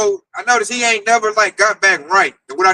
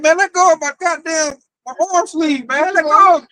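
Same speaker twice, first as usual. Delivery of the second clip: higher, irritated let-go; annoyed brush-off; 5 semitones higher than usual. Retold or imitated. Pushing off the coworker clutching his sleeve, annoyed. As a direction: shake him off with annoyance. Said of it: "I'm like".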